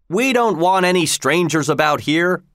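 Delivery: lightly voiced hostile trainer; gruff trainer. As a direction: shoo the nosy visitors away. Hostile trainer warns off strangers.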